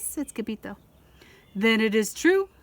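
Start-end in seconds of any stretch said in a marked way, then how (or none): 1.5-2.5 decreeing. A narrator's reading. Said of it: "decreed Don Diego".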